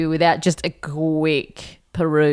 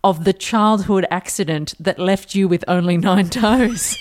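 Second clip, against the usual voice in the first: slow, deliberate quoting; slow reading; slower than usual. Shown as a demonstration. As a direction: read out slowly.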